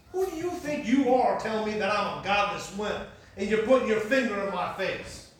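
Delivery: loud, affronted comeback; indignant retort. Retold or imitated. Dale answering back to his pastor, indignant retort.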